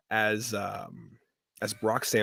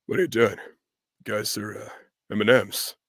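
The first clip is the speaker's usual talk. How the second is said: halting, puzzled deadpan; lightly done actor impression; Patrick Warburton; 3 semitones lower than usual. Actor walking in on candy characters, hesitant deadpan impression. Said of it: "Patrick walks in".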